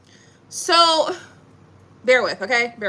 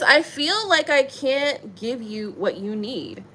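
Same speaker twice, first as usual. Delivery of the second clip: reading card text; 4 dB quieter, much slower than usual. Shown as a demonstration. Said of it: "so it says".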